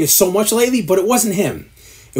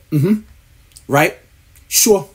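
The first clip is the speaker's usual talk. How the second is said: mock host; much slower than usual. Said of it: "they go".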